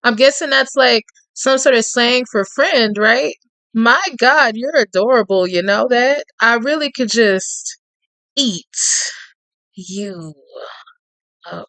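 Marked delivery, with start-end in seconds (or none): 3.7-11.7 lightly voiced Cajun man. Reading Tate's lines to the listener in a lightly voiced Cajun charmer's tone.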